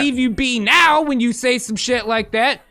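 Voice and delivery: high, stuttering double take; mock alarm. US reacting to hearing trash talk, mock alarm. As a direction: blurt it like stopping someone short. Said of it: "we're not gonna be".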